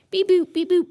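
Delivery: high beeping robot voice. Pretend. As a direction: beep like a little robot. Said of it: "Super robotic".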